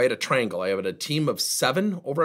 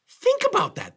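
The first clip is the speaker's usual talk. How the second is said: "Think" pushed higher and louder the second time; louder repeat; 5 dB louder than usual. Shown as a demonstration. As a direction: repeat it and hit "Think" harder.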